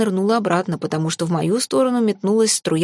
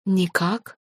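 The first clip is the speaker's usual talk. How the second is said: hesitant, questioning rise; pondering. A narrator's reading. Mother dragon realising she has no name, pondering. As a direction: answer unsure, tune lifting at the end. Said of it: "Она задумалась".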